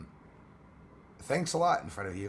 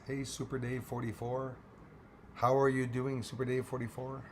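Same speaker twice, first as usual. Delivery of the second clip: squeaky cracked voice; 3 semitones higher than usual. Real, not acted. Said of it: "I sound like a twerp".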